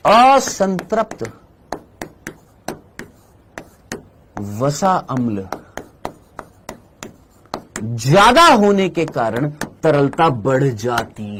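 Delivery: slow, spaced-out words with long pauses; slow dictation. Real, not acted. Teacher repeating the key line for students to note, slow dictation. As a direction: dictate it phrase by phrase, slowly.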